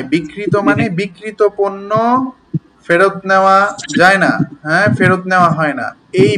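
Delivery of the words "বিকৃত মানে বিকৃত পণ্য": বিকৃত said as "bikkrito", meaning sold; "bik-krito" for each বিকৃত, slowly; doubled k. Shown as a demonstration. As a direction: say both বিকৃত with a held k. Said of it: "উচ্চারণটি কিন্তু বিকৃত নয়".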